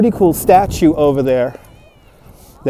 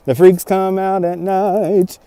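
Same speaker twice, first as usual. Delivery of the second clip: spooky quote; 4 dB quieter, slower than usual. Acted. Quoting a chat line dramatically.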